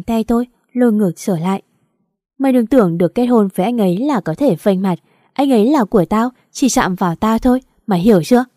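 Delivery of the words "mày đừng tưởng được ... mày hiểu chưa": snide, shrewish threat; sharp-tongued nasty. Acted. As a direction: spit the threat out spitefully. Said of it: "giọng nói chanh chua ban nãy". (giọng chanh chua)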